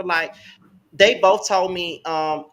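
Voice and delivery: usual speaking voice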